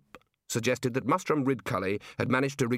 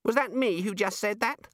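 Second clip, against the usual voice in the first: put-on high-pitched child's question; small high voice, taken aback; puzzled small child; 9 semitones higher than usual. A narrator's reading. Shrunken wizard startled by his own words, high child voice.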